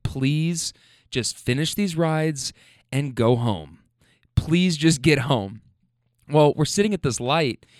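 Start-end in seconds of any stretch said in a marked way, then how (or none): 0.0-5.6 exhausted. Retold or imitated. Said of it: "I hit a wall where I was like".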